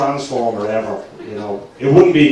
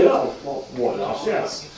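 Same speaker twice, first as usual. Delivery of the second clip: put-on posh English accent; 5 dB quieter, slower than usual. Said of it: "put on a very posh English accent".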